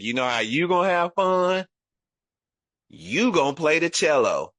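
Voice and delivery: lightly voiced insistent mother; mother laying down law. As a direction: play Mama announcing the rule. Mother decreeing cello, retold.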